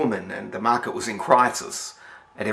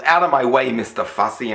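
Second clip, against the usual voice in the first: mock yell; 4 dB louder than usual.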